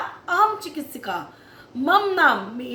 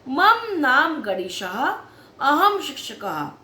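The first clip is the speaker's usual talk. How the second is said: slow recitation; slower than usual. Shown as a demonstration. Teacher models Sanskrit sentence.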